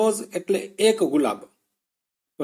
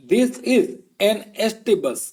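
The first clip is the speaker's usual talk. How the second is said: slow model sentence; 2 semitones higher, slower than usual. Shown as a demonstration. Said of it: "ચાલો થોડી practice કરીએ".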